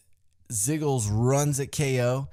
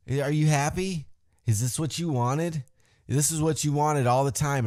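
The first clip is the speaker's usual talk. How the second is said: acted taunting; 2 semitones higher than usual. Acts out Sami confronting Shane.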